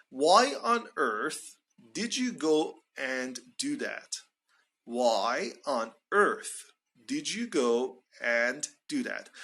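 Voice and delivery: slow model phrase, "earth" rising then falling; rise-fall on earth. Shown as a demonstration. Teacher modelling the expression for learners, rise-fall on "earth". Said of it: "fall intonation for earth".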